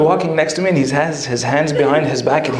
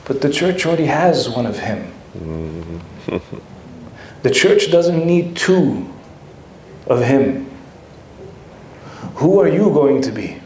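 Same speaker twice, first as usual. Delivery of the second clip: gentle smiling reply; 4 semitones lower, 3 dB quieter than usual. Retold or imitated. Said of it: "he smiles and he goes".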